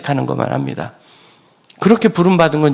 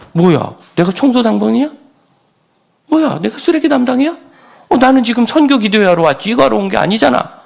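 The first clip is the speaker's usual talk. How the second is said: higher, mock-indignant complaining youth; grumbling youths; 8 semitones higher than usual. Pastor imitating youths complaining about trash duty, higher and indignant. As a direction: whine like a young man stuck with trash duty. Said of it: "그때 내려오는 청년들이".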